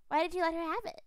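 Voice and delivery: high, loud sing-song invitation; eerie playful ghost child. Acted. Ghost child inviting the player to hide and seek, high and eerie. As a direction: lure them into the game.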